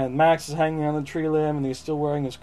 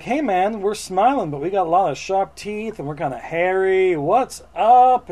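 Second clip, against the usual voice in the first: higher, lightly voiced friendly monsters; a hint of monster character, pitched up; goofy monster greeting; 4 semitones higher, 3 dB louder than usual. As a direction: greet the kid like chummy monsters. Monsters greeting in retold story.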